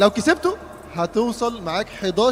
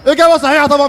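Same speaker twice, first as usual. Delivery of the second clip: booming prize announcer; 5 semitones higher, 9 dB louder, faster than usual. Real, not acted. Host announces correct answer.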